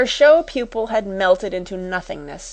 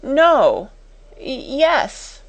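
higher, flustered self-correction; frightened stammer; 7 semitones higher, 4 dB louder, much slower than usual. A narrator's reading. Timid sister answering the angry schoolmistress, flustered. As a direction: falter and correct yourself nervously. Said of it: "began to turn pale".

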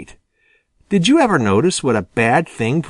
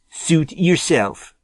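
slow, understated dismissive retort; mildly acted shrug-off; a hint of cold defiance; curt retort; 5 semitones higher, slower than usual. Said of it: "retorted Jimmy".

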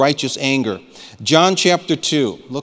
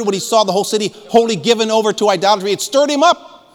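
raised pitch, pressing the congregation; fervent preaching; 7 semitones higher, 3 dB louder than usual. Real, not acted. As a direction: challenge them with searching urgency. Preaches with rising fervor.

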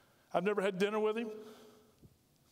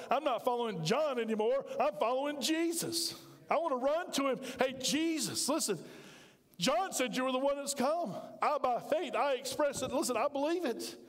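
higher, urgent and eager; eager declaration; 4 semitones higher than usual. Acted. Disciple calling out to Jesus, eager and high. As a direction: run to him and tell him.

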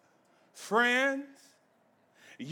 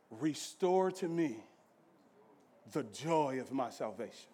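much softer, drawn-in questioning; hushed preaching; 8 semitones lower, 8 dB quieter than usual. Acted. Preacher asking why we don't rejoice, hushed and soft. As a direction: drop right down and lean in.

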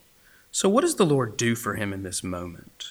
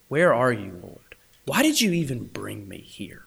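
hushed, despairing plea to God; despairing prayer. Retold or imitated. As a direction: let the question fade almost to a whisper. Anguished prayer retold from memory.

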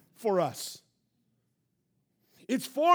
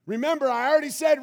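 preaching shout; 4 semitones higher, 5 dB louder, much faster than usual. Acted. Preaching at full force.

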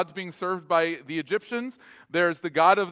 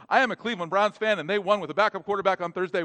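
rushed aside; 3 semitones higher, faster than usual. Shown as a demonstration. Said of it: "Sorry, I just had to throw that in".

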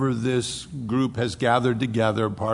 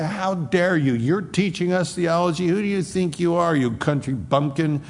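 angry Pharisees; 5 semitones higher than usual. Retold or imitated. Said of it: "really angry and they say".

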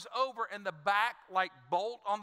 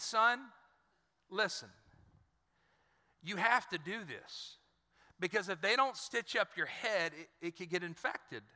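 calming father; 3 semitones lower than usual. Retold or imitated. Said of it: "I'll calm him down".

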